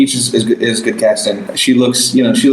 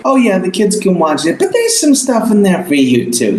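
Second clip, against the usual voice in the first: imitated parent talk; 7 semitones higher than usual. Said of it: "that conversation where it's like".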